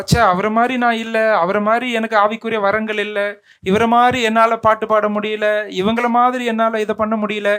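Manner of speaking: lightly acted self-doubt, pitch dropped; discouraged self-talk. Preacher voices a discouraged believer comparing himself to others, mildly dejected.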